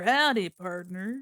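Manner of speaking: slow drawled cowboy greeting; lightly voiced cowboy, slow. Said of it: "I should've pulled out my cowboy voice".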